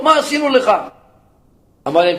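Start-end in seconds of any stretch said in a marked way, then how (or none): 0.0-0.7 pleading. Acted. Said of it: "התחילו כולם לבכות".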